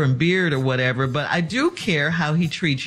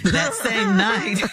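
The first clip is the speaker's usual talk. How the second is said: laughing; 4 semitones higher, much slower than usual. Real, not acted. Laughing while reading letter.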